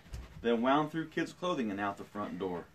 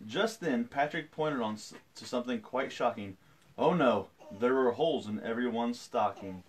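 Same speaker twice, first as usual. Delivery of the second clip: storytelling. A narrator's reading. Reads picture book aloud.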